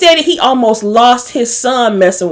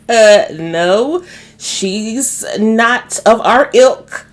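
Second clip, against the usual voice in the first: slow, disdainful put-on mother's voice; a lightly voiced haughty mom, slow and dismissive; snooty mother; much slower than usual. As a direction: look down your nose at her, drawn out. His mama rejects Karen.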